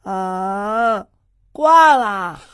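hammed-up gloom over a failed exam; mock despair. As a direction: act out the dread of failing, half laughing. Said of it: "我每次拿到成绩就会说".

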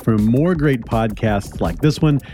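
upbeat announcer read; podcast outro. Acted. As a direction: read the outro credits brightly. Podcast outro read over music.

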